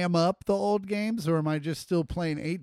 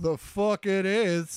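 gruff game voice; 5 semitones higher, slower than usual. Retold or imitated. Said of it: "they're like".

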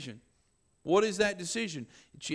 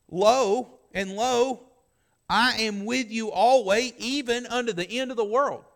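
booming scripture; 4 semitones higher, 9 dB louder than usual. Real, not acted. Quoting scripture with force.

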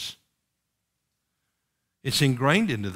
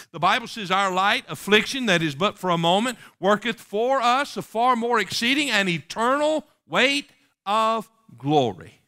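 raised, ringing preacher's recitation; scripture recitation; 6 semitones higher than usual. Acted. Preacher quoting a promise of glory to the congregation, scripture recitation.

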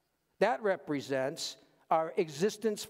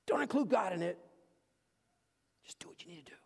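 hushed, sly aside; whispered temptation; much faster than usual. Retold or imitated. Voicing the worldly mindset.

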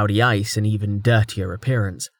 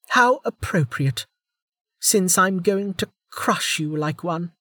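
menacing; 8 semitones higher than usual. Acted. Velika threatens to crush.

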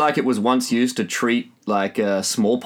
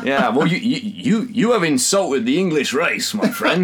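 mock offence. Poses as offended Englishman.

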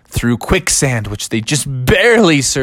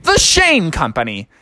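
put-on slow, higher old-man slogan; Tom Shane; 5 semitones higher than usual. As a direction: deliver it as a drawn-out advert tagline. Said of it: "Tom Shane said".

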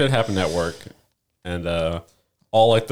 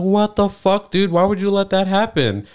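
retold outrage; 11 semitones higher, slower than usual. Telling the snitching coworker off, incredulous and angry. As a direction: replay the moment you found out, exasperated.

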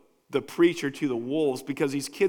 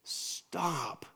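commanding hush; 2 semitones higher, much slower than usual. Retold or imitated. David hushing the emotional people, sharp commands. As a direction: bark it to silence the crowd, then settle. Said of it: "And David just goes".

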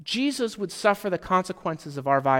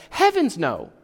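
exasperated; 4 dB louder than usual. Retold or imitated. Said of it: "more of an exasperated".

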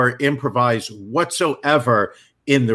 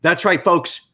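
booming radio announcer read; 3 semitones higher than usual. Acted. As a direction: sell it like a radio spot. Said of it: "I'm gonna put my radio voice on".

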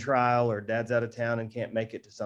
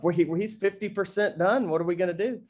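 hammed-up parental panic, much higher and louder; mock panic; 6 semitones higher, 5 dB louder, faster than usual. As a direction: play the dad panicking for laughs. Mock panic over son turning nine.

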